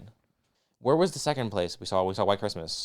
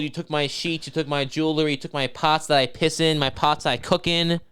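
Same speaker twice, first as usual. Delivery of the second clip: higher, insistent listing of grievances; mock outraged Scrooge; 4 semitones higher than usual. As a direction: reel off the accusations in a hammed-up rant. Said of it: "and he says".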